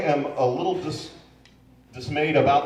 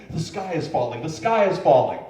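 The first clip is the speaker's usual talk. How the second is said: mock panic; 3 dB louder than usual. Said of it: "blows everything out of proportion".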